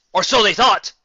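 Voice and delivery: loud, high dramatic sting; ominous twist. A narrator's reading. Narrator springing the dark twist, booming. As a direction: boom it out like a horror trailer.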